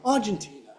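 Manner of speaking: "Argentina" stressed on the first syllable, AR; stress moved to AR. Shown as a demonstration. Teacher mocking what people say, stress shifted to AR. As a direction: punch AR in "Argentina", let TI fall away. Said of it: "look, the stress has moved".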